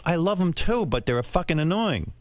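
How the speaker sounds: low, gentle retold sweetness; loving. Wife confiding in bed about his parents, loving. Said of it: "most loving, sweet thing".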